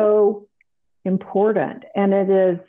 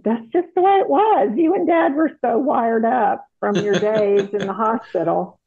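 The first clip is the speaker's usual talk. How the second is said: higher, quicker, a light take on the daughter's matter-of-fact voice; quoting her daughter; 3 semitones higher than usual. Retold or imitated. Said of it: "my daughter said".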